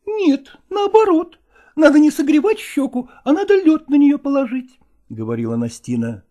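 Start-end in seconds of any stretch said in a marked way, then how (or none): 0.1-4.8 high and louder, bossy woman; insistent woman. Acted. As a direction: correct him sharply, pitched up. Nastina contradicts him.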